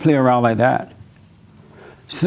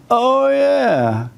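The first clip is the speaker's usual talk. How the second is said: imitating wife; slower than usual. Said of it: "And then she goes".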